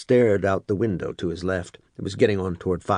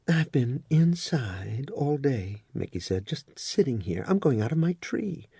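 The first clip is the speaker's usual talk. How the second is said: weary voice; 5 semitones higher, 4 dB quieter than usual. Acted. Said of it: "in the same weary voice".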